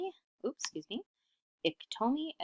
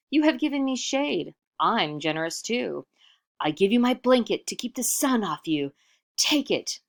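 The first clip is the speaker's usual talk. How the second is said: louder, higher self-important offer; pompous giver; 3 semitones higher, 5 dB louder than usual. Acted. Iktomi grandly offers his blanket to the boulder, louder. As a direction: sound grand and generous.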